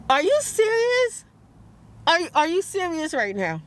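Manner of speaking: stunned, indignant questioning; incredulous. Retold or imitated. Acting out her disbelieving reply.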